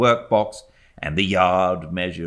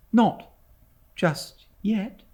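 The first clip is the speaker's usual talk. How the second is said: much higher, gentle tender question; much slower than usual. A narrator's reading. Mother tenderly pressing her servant, gentle and high. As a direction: coax it out tenderly. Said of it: "said my mother tenderly".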